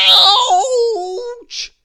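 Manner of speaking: high, loud yelp of pain; pained cry. Acted. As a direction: cry out as the plaster rips off. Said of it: "he cried".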